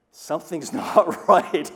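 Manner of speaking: laughing loudly at the mix-up. Real, not acted. To the congregation, recalling the wrong saw, laughing loudly. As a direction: chuckle through the words in disbelief.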